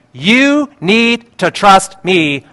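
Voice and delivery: slow, deliberate word-by-word assurance; lightly voiced God, each word weighted; God speaking. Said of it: "and he says".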